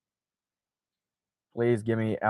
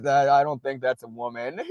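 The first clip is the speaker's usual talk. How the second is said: laughing; 2 semitones higher than usual. Real, not acted. Laughing at a Barbara Bush photo.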